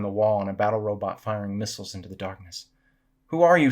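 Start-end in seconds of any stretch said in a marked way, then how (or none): 3.3-3.7 loud, raised-pitch call. A narrator's reading. Samantha calls to the ninja and robot, calling out. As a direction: call out to someone across a cavern. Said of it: "she called".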